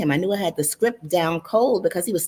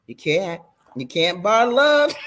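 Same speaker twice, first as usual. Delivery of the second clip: repeating, laughing. Acted. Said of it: "he repeated himself".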